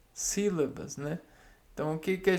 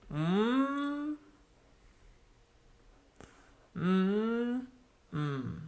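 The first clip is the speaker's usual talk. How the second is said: syllable beats; 5 semitones higher, much slower than usual. Shown as a demonstration. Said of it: "A gente tem um".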